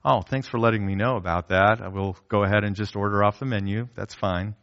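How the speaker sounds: a diner accepting the closed buffet, gracious; gracious reply. Retold or imitated. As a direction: let it go kindly. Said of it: "Or do you just say".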